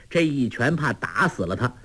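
plain reading voice

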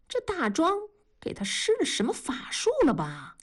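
悄声耳语，几乎不出声; 像说悄悄话似的把猜测吐出来; 压低声音. A narrator's reading. 文丽躺床上神秘猜测. (文丽躺在床上悄声对丈夫嘀咕)

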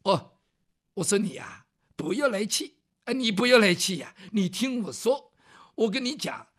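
put-on southern-accented scholar. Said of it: "说话带点南方味儿".

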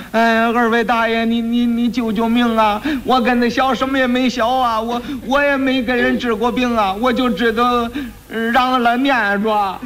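mock crying plea. Boy kneeling and begging the two constables to save him, mild mock crying. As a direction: beg for your life, lightly whimpering. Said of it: "跪那儿直哭".

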